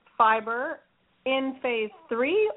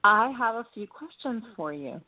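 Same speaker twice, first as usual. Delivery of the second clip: distant, off-mic voice; speaking from across the room; far from mic. Real, not acted. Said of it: "you sound like you're far away".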